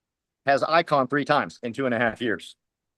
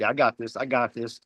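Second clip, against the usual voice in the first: playing it cool; 4 semitones lower than usual. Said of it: "trying to play cool".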